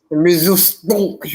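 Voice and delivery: "Resistance" drawn out slowly in a German accent. Shown as a demonstration. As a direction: roll "Resistance" off the tongue in a slow German accent. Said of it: "make it roll off your tongue".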